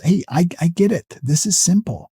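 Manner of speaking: easygoing reasonable-man tone. Shown as a demonstration. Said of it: "Reasonable man is".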